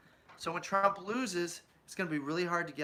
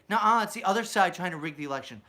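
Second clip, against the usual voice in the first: a louder whiny nuh-uh; childish denial; 2 semitones higher, 6 dB louder, faster than usual. Retold or imitated. Republicans accused of rigging, childish denial. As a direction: deny it like a kid caught out. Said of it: "You say".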